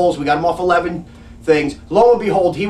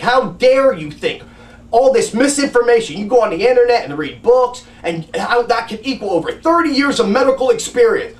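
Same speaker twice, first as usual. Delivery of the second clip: retold yelling; 5 semitones higher than usual. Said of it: "He yelled at me".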